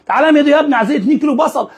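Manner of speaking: teasing old lady impression; old woman voice. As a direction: mimic the old lady calling for onions. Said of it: "كل شوية تقول لي إيه".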